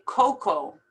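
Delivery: "cocoa" as "koh-koh", no A sound; silent A. Shown as a demonstration. Teacher repeating it for learners, A left silent. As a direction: end "cocoa" on a long O. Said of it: "don't even pronounce the A".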